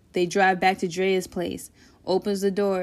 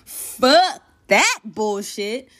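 slow refusal; 3 dB louder, much slower than usual. Acted. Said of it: "Tay says".

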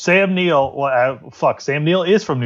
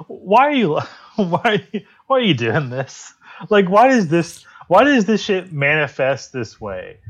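exasperated disbelief; 3 semitones higher than usual. Retold or imitated. Mocking a podcaster's Amy comment, exasperated and incredulous. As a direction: throw up your hands in mock despair. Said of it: "And I was like".

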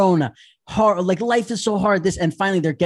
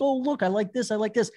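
a hint of an eager child; little kid; 3 semitones higher, 5 dB quieter than usual. Kid picking out Christmas stuff, lightly imitated child. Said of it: "He's, like, a little kid".

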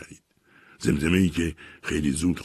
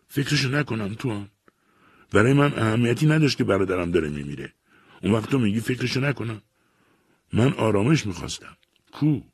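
raised, higher, grief-torn pleading; anguished grieving man; 8 semitones higher, 3 dB louder than usual. A narrator's reading. Arsat grieving to Tuan over his dying wife, raised anguished voice. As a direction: cry out the loss of brother and wife.

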